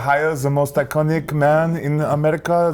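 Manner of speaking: badly faked French accent. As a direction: attempt a French official's accent. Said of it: "That's your French accent?".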